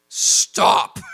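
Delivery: loud, strained acted yell; hammed-up shouted objection; exasperated shout. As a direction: cry out in comic protest. Sebastian protests at Monty's note-taking.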